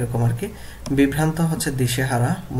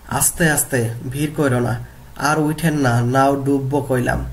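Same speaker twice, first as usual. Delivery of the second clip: Bengali village dialect, read as a classroom example; regional dialect. Shown as a demonstration. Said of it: "গল্প থেকে আঞ্চলিক বাক্য দেখি".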